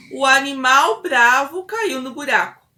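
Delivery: repetição forte e mais aguda; resposta em voz alta. Acted. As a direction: repita alto, articulando cada palavra. Voices the child's answer aloud. (resposta da criança, alta e aguda)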